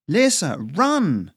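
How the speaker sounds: high, loud call across a cavern; urgent warning shout. Acted. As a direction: yell to make your partner flee.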